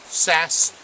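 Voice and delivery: Sasquatch said slowly, the sass drawn out; proper Sasquatch. Shown as a demonstration. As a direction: spell out Sasquatch carefully in its syllables. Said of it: "Two syllables".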